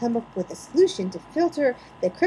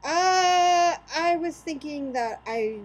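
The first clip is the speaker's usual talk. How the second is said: tearful, slower voice; crying; 5 semitones higher, slower than usual. Real, not acted. Cohost asked about the episode, crying. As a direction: answer through real tears.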